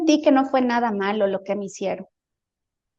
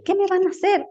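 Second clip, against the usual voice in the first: higher-pitched, mildly alarmed question; retold fright; 8 semitones higher than usual. Patient recalls asking approaching beings, mildly frightened. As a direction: re-enact a worried protest, voice lifting. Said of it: "ese miedito de que algo".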